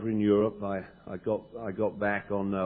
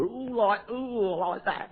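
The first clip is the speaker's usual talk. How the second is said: much higher, slow gushing ooh; gratitude attack; 9 semitones higher, much slower than usual. Shown as a demonstration. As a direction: swoon with overflowing gratitude. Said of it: "where you just come over".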